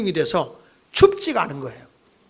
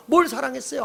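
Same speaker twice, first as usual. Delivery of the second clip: higher, mildly mock indignant; resentful complaint; 4 semitones higher than usual. Sick faith blurting out complaints to God, resentful. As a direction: complain it, pitched up. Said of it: "원망하고 불평이 튀어나오는 겁니다".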